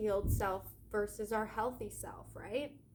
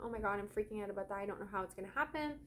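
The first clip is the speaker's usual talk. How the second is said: fast, rushed panicky babble; hammed-up money panic, rushed; mock freaking out; much faster than usual. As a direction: rattle it off like someone spiralling in worry. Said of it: "if you're like".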